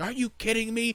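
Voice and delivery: shrill, very high screaming, rebuking tone. Retelling confronting a speeding driver, imitating himself screaming. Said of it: "I was just screaming at him".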